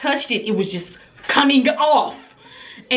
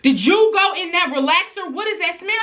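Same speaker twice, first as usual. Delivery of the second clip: suspicious; 8 semitones higher than usual. Retold or imitated. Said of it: "my first thought was".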